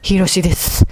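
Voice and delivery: Hiroshi-style sign-off. Acted. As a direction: land ひろしです as a gravely serious comic sign-off. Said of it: "最後の「ひろしです」を言いたいがため". (劇画風に重々しく「ひろしです」と締める)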